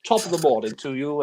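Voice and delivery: mock greeting, no French accent attempted; robbers as Clouseau. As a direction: imitate a bad Clouseau impostor. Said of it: "they're just saying".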